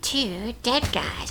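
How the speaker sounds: slow, drawn-out spooky narrator voice.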